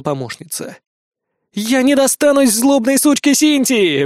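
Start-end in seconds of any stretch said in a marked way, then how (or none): 1.5-4.0 радость. Acted. Марк радостно кричит в беде.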